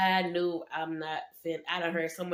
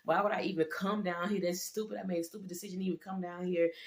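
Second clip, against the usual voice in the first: soft retold prayer; 5 dB quieter than usual. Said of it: "praying to God".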